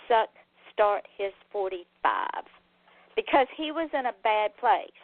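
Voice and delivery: earnest letter reading to the audience; host reads a fan's letter on air. Acted.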